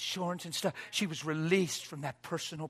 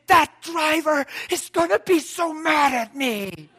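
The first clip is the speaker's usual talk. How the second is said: fearful worry; 10 semitones higher, 9 dB louder, slower than usual. Retold or imitated. Frightened lady after crash.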